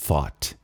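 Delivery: "Thought" with TH made between the teeth; tongue-between-teeth TH. Shown as a demonstration. Teacher models the pronunciation of thought for students, dental TH. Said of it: "A primeira é a pronúncia do thought".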